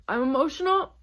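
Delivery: ordinary delivery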